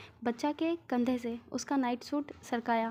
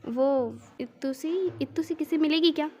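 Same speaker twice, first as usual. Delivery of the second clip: pouting plea; 3 semitones higher than usual. Acted. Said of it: "श्री छोटा सा face बनाकर".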